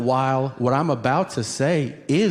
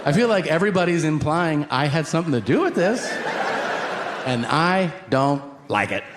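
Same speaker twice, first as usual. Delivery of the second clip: hurried aside; 3 semitones higher, faster than usual. Retold or imitated. Rushed private whisper to wife.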